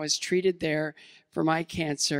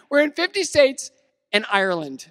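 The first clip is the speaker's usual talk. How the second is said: proud, savoured repeat; 7 semitones higher, 6 dB louder than usual. Real, not acted. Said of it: "I love saying that".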